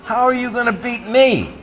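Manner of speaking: high, loud, laughing scoff; laughing disbelief. Retold or imitated. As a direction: laugh him off as a joke. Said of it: "I said".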